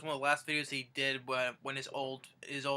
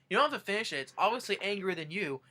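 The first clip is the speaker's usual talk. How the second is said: higher-pitched quoted goading; imitating Pickle Boy; 6 semitones higher, faster than usual. Pickle Boy needling Grandpa over the Whopper, lightly voiced taunt. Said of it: "Pickle Boy was like".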